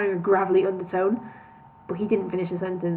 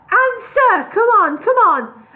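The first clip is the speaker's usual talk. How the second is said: pressing shout; 11 semitones higher, 8 dB louder, slower than usual. A narrator's reading. Bingo pressing for answer.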